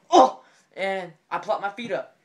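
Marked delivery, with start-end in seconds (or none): 0.1-0.4 high, loud yelp of impact; imitated bump yelp; pained "oh". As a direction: cry out as if bumping your head. Imitates man hitting his head.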